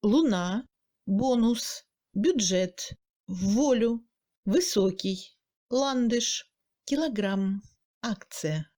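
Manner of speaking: word-list reading, each vowel clear; clearly heard vowels. Shown as a demonstration. Teacher giving examples, clearly articulated vowels. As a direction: articulate every У and И cleanly. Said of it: "on les entend bien nettement".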